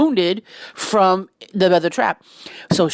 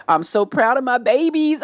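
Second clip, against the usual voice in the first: slightly high, proud gush; 4 semitones higher than usual. Real, not acted. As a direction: gush over your babies. Gushing about the babies.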